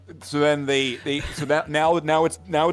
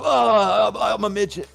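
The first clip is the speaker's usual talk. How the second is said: high squeaky put-on voice; mock midget voice; 8 semitones higher, 5 dB louder than usual. The midget announces himself in a high put-on voice. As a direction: play the midget shrill and silly.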